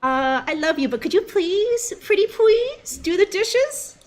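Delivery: high, sweet pleading voice; shy cutie pie. Acted. Shy girlfriend sweetly begging him to do the dishes. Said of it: "A shy cutie pie".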